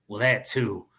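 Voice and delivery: lightly put-on cowboy accent. Dealer agreeing with his contact, light cowboy accent. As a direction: concede it like a cowboy. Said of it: "Again with the cowboy thing".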